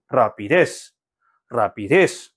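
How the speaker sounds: "라피데스" slow and low, 데스 stressed; stress on final syllable. Shown as a demonstration. Teacher models word for fast, "라피데스" stressed on 데스. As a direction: dip on 피, then stress 데스 in "라피데스". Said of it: "네스에 강세가 있겠습니다".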